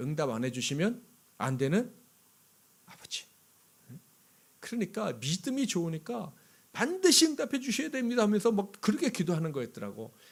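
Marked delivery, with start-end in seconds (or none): 6.7-8.2 put-on very high, loud, insistent, demanding voice. Describing how another person prayed to god, mimicking a demanding prayer. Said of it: "따지듯이 기도한".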